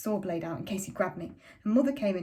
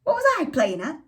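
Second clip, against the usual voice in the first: furious father; 9 dB louder than usual. A narrator's reading. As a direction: fling the blame back at her. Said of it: "And Father shouted".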